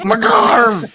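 Margarm yelled high and loud; shouted Margarm. Retold or imitated. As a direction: Margarm belted, falling. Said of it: "Zormama went".

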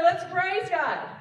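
loud, high, drawn-out rallying call; worship leader's call. Shown as a demonstration. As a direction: stretch it out to rouse a congregation. Demonstrates worship leader's prompts.

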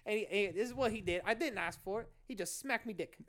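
mock Australian stand-up; Jim Jeffries. Host continues the borrowed routine, Australian accent. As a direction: carry on the yarn as an Aussie comic. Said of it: "just doing his bit".

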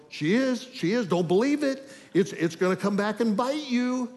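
a nagging voice that won't believe her; suspicious inner voice. Retold or imitated. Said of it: "everything in me is going".

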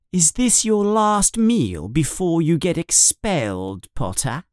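mock him with a cruel smile; cruel sneer. Schoolboy bully taunting Harry at dinner, sneering. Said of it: "says Malfoy with a cruel smile".

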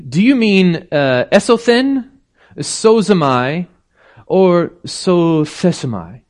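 high, slow, teasing Greek questions; an ornery old bishop quizzing her; bishop's reply. Retold or imitated. Preacher voicing the bishop answering the girl with Greek verbs, high and teasing. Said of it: "And he answered".

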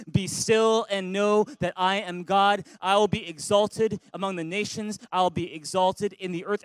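be still read slow and loud; loud slow congregational scripture; loud reading together. Shown as a demonstration. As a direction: read it out loud, slowly, with the church. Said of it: "Read it with me in a loud voice".

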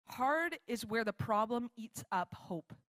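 slow, deliberate reading of a quote; measured quotation. Real, not acted. Preacher quotes a definition of hard, slow measured delivery. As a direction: let each phrase land, slowly.

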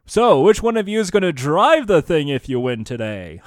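lightly voiced game show host; Al Du Bois. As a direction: play a host lightly ribbing contestants. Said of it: "have, like, Al Du Bois go".

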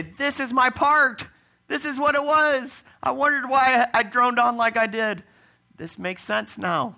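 delighted realization. Acted. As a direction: proclaim it high and long, as a sudden revelation. Acting tone-deaf believers' discovery in heaven.

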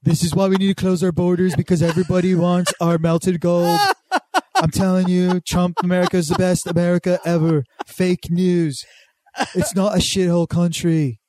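lightly done Trump rally voice; Trump impression. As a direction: boast like a blustering president. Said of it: "You turn British at the end".

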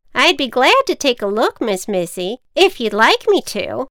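lightly voiced polite witch. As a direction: offer kindly, as a witch. Witch offering help.

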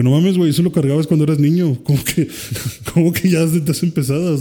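incredulous, pitch lifted; retold Piccolo chiding. Piccolo chiding Gohan over the heavy costume, incredulous. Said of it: "Le dice como que".

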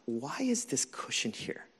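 mildly exasperated, kept under the breath; soft grumble of mock frustration; quietly puzzled and put out; retold frustration. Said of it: "So I'm, like, so frustrated".

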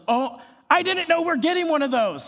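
high, surprised student voice; a student caught off guard by the news, surprised. Retold or imitated.

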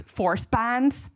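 "force bonds" with broad Midwest vowels; Midwest accent. Shown as a demonstration. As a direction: let the Midwest show in "bonds". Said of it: "when I say force".

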